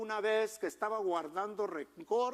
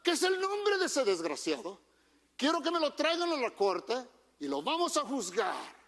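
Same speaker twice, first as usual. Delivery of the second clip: indignant king; 5 semitones higher than usual. Retold or imitated. King David outraged at the thief.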